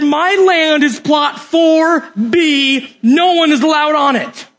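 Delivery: half-laughing landowner guarding his plot; mock possessive boast. Israelite landowner to outsiders, mock possessive laughing boast.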